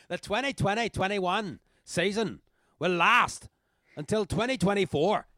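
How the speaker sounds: mock Northern Irish party speech. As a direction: declare it like a Northern Irish politician. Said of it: "some kind of Northern Irish".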